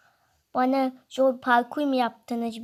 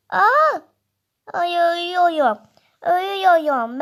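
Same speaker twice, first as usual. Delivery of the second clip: mock panic; 5 semitones higher, 6 dB louder than usual. Baby dies in game.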